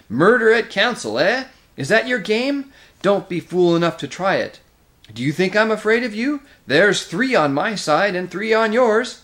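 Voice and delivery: high, loud, aggrieved challenge; defiant Nikabrik. Acted. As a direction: dare them to a fight, pitched high and loud. Figure in a story.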